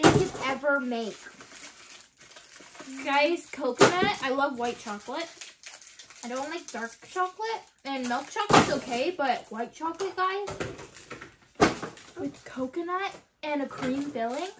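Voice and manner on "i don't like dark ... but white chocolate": normal talking voice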